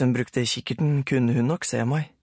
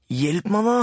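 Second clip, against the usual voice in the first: Rulle straining; 9 semitones higher, 4 dB louder than usual. A narrator's reading. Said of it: "sa han".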